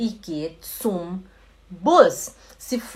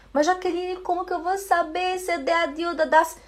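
high-pitched student's objection; questioning student; 8 semitones higher, faster than usual. Acted. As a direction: put on a puzzled pupil, pitched up high. Voices a student's puzzled objection.

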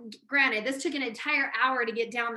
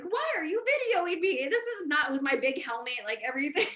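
high-pitched mock outrage; retold indignant protest; 5 semitones higher than usual. Wife to husband videoing her struggle, mock indignant. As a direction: protest being filmed, half-laughing by the end.

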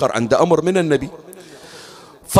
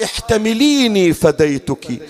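tender apology; 3 semitones higher, slower than usual. Retold or imitated. Apology repeated.

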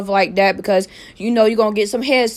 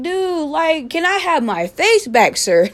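sarcastic; 4 semitones higher than usual. Retold or imitated. Sarcastic retort to staring stranger.

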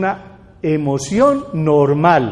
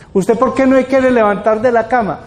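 pressing questioner; 4 semitones higher than usual. Retold or imitated. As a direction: demand an answer like a worried parent. Parent questions a depressed person.

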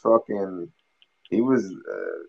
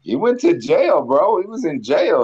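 heated insistence; 10 semitones higher, 5 dB louder than usual. Real, not acted. Heated argument about a rapper.

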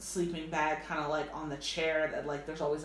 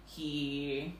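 storytime voice. Acted. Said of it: "Talk, like, in your story voice".

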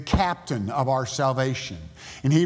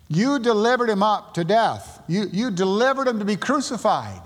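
accusing; 4 semitones higher than usual. Retold or imitated. Peter accusing the religious crowd.

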